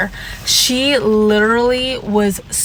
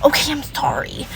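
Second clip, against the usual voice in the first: meek younger self; 5 semitones higher, 4 dB quieter than usual. Retold or imitated. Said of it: "I was like".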